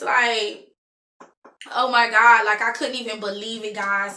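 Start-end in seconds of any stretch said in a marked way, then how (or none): 1.7-2.5 louder shocked exclaim; stunned oh my God. Retold or imitated. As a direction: let the disbelief burst out. Heartbroken, remembering the scene.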